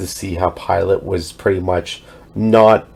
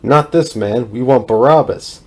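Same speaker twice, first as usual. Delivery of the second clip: louder, higher crowd shout of refusal; crowd shouting back; 5 semitones higher, 5 dB louder than usual. Acted. The crowd refuses Pilate, shouting back louder. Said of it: "they shouted back".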